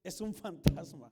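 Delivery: a hint of terrified disciples crying out; mock scared shout. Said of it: "y gritaron ellos".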